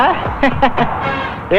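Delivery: unvoiced airy laugh; breathy laugh. Man laughing to himself at silent thugs, airy chuckle.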